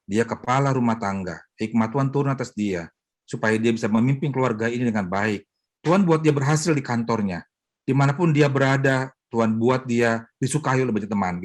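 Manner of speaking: loving prayer. Retold or imitated. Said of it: "Tapi dengan kasih".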